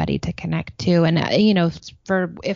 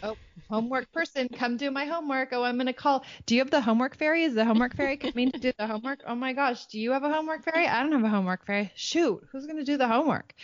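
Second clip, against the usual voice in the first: quick, higher hammed-up silliness; fast, raised, hammed-up homework fairy bit; silly mock panic; 4 semitones higher, faster than usual. Shown as a demonstration. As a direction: play the helpless kid fishing for a homework fairy. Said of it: "or I'm being silly".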